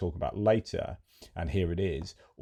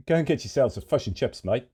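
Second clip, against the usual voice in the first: higher-pitched mock Kiwi accent; New Zealand accent; 5 semitones higher, 4 dB louder than usual. Presenter joking mid-report, higher mock New Zealand accent.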